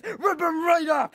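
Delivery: mock rage. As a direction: bellow the threat slowly, playing furious. Threat to tear commenters apart.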